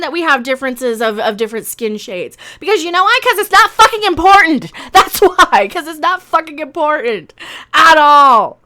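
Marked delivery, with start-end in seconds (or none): 2.6-8.6 louder emphatic rant; angry rant. Real, not acted. Reviewer insists differences are unimportant, loud and angry. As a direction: bang it home, loud.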